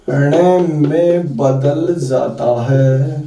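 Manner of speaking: drawn-out, spaced words; slow, measured dictation. Shown as a demonstration. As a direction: dictate slowly with long pauses. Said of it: "वो मैं special note पहले लिखाऊंगा".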